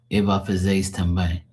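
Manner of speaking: fast, connected Portuguese with "também" as "tem-bayng"; Portuguese pronunciation. Shown as a demonstration. Showing how we say it, brisk Portuguese. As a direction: say it briskly, nasal "ay" closing "também". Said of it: "That's how we say também".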